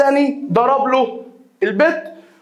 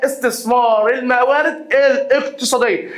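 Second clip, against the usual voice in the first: slow, deliberate read of استثمار الموارد الاقتصادية; slow dictation for note-taking. Shown as a demonstration. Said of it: "repeated slower for dictation".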